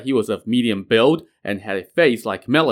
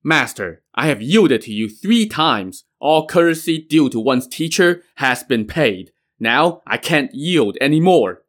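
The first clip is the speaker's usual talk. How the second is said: fuming; 4 semitones higher than usual. Acted. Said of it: "Yin Hong was also fuming".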